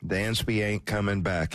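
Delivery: a lightly imitated Southern accent, pitched a bit low; half-hearted Southern accent, quoting the Grinch. Host retells the Grinch's news in a mild Southern accent. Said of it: "in his Southern accent".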